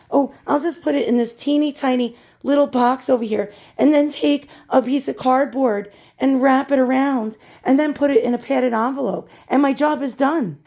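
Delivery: breezy mock imitation of a careless packer; lightly mocking, slightly singled-out quote; mocking seller. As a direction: mimic a seller pleased with a lazy job.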